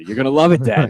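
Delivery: lightly voiced scheming kid. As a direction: put on a kid talking to Dad. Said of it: "why I'm doing that voice".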